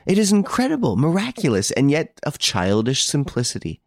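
high-pitched, marvelling outburst; amazed exclamation. A narrator's reading. Devan marvels at the solved mystery, amazed. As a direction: exclaim in wonder, pitch leaping up. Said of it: "He exclaimed".

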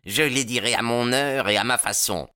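high-pitched defiant character voice; angry retort. A narrator's reading. Baldwin refusing the newcomer's demand, defiant.

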